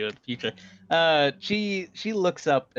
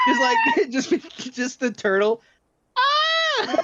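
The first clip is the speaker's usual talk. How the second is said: high words through laughter; laughing while talking; 5 dB louder than usual. Real, not acted. Laughing while trying to talk.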